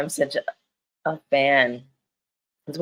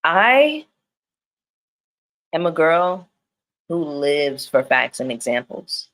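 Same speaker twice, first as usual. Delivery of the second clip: half-playful singer's strut in the voice; impression of a singer. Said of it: "the singer with the bouncing shoulders".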